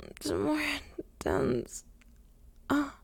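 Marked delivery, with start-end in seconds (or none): 0.1-1.8 hushed, overwhelmed breath; breathless whisper. Acted. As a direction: whisper it, barely voiced. Overwhelmed by sensation.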